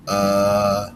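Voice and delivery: uh as the short U; a short clipped uh; short U vowel sound. Shown as a demonstration. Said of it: "that short U".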